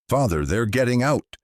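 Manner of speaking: high, loud panicked cry; terrified cry. Acted. Sarah cries to the priest as the creatures break out. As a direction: cry out as they break free.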